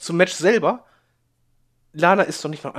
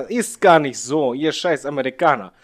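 mock Russian accent; 4 dB louder, slower than usual. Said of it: "mit tiefer Stimme sehr ernst und, äh, trocken".

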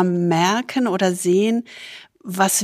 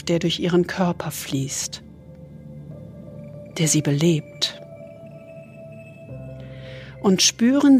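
soothing spa whisper; 4 dB quieter than usual. Acted. Leads a body scan meditation.

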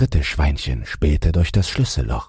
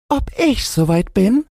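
very high piglet squeak; tiny high-pitched pig character; retorting little pig. A narrator's reading. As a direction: echo the question in a squeaky pig voice.

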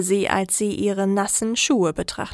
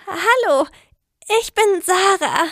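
high, sweet greeting; lightly voiced, sweet hello; bright young woman; 10 semitones higher than usual. A narrator's reading. Sarah greeting clone.

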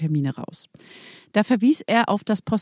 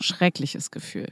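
slow, unvoiced and low; breathy dejected whisper; 3 semitones lower, 5 dB quieter, slower than usual. Real, not acted. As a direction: let it sink, barely voiced. Recalling feeling trapped. (leise, resigniert geflüstert)

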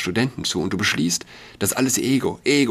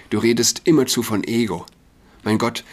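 ordinary delivery

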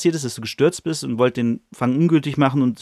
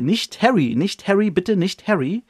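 pleading woman; 7 semitones higher than usual. Retold or imitated. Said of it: "Harry hört eine Stimme".

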